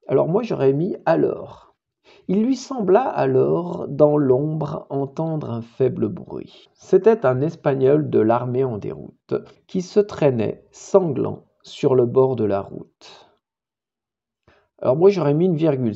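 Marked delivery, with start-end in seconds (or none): 2.3-13.3 slow, deliberate verse, falling at line ends; poetry recitation. Acted. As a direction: recite the poem gravely and steadily. Récite le poème. (récitation de poème lente et posée)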